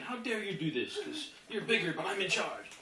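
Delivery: indignant. Acted. Pit bull challenging the owner who holds it down, indignant. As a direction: push back in mock indignation. Dog defies its bigger owner.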